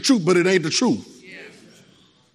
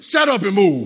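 no-nonsense self-command, words stretched; blunt self-talk. Shown as a demonstration. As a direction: order yourself to get going. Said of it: "That's how y'all need to talk to yourself".

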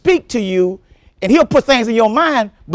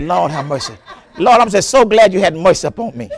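laughing relief; 5 semitones lower than usual. Retold or imitated. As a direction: chuckle through it, thankful. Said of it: "I said".

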